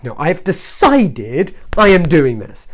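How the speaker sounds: slow, emphatic acted determination; retold stubborn resolve. Telling viewers of reaching a stage with the CDs, retold stubborn resolve. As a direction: act out digging your heels in, word by word. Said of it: "when you get to a stage".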